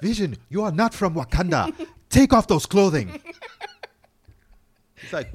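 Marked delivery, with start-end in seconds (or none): 0.0-3.2 high, loud mock-outraged command; hammed-up, forceful dressing-down; indignant Wakandan. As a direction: scold an impostor in comic indignation. Acting an outraged Wakandan scolding Vision.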